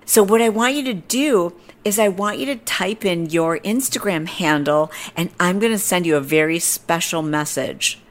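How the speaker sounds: high-pitched instructions, settling as they go; lightly voiced pushy stranger; imitating the woman. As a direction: mimic her persuasive request, starting high. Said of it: "And she's like".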